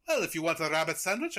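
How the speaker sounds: put-on not very good French accent; hammy mock-French voice. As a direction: attempt a loose French accent. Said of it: "he does this French accent".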